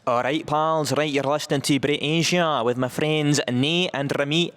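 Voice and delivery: Glasgow lilt, hosting; a Scottish presenter voice; Scottish accent. Pretend. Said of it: "like, Scottish".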